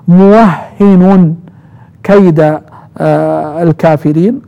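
"موهن" with open wa and doubled h, ending in n, muwahhinun; first reading. Shown as a demonstration. Teacher showing students Ibn Kathir's reading, "موهن" as muwahhinun. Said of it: "قرأ ابن كثير ونافع وأبو عمرو".

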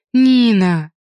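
loud call of her name. A narrator's reading. Alina calling after Nina running to the metro, loud call.

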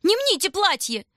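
very high, loud squeal; shrieking doll. A narrator's reading.

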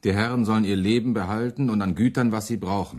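emphatic. Acted. Müntzer answers the lords' envoy.

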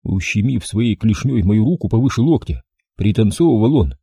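ordinary delivery

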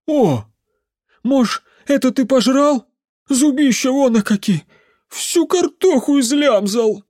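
put-on high, loud drunken accusation; the drunk uncle blaming the demon for his potatoes; drunk accusing. A narrator's reading. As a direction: jab at the dead demon and rant.

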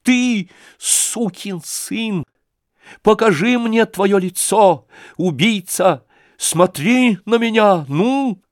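high, slow, loud command; weighty, commanding. Acted. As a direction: pin him down with each word. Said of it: "может говорить так веско и властно".

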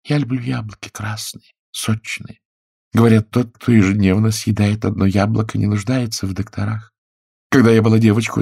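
wife's voice. A narrator's reading. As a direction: play the wife fondly recalling apples. Woman's voice in story.

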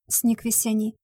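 plain reading voice

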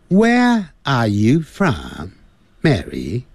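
very slow British English, no Rs; British accent. Shown as a demonstration. Teacher models John's question to Mary in British English. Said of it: "在英式英语".

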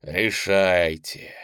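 very slow, ominous single word. Acted. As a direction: draw it out with menace. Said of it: "зловеще произнёс Роговский".

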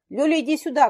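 loud high call across the park; shout. Acted. Дмитрий calls Лёлька over after catching him, shouting. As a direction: call her over, triumphant. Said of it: "крикнул он".

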